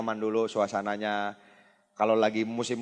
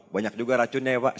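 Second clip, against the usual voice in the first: light, playful jab at a smoker; teasing joke. Retold or imitated. Salesman teasing a smoker in the smoking area, playfully. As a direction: tease him gently like a friend. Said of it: "Saya bercandain gitu".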